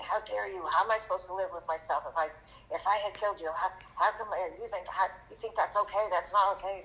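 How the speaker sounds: imitating an upset driver telling off a kid; retold angry yelling. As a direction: retell a flustered, indignant scolding without fully shouting. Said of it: "he was yelling at me".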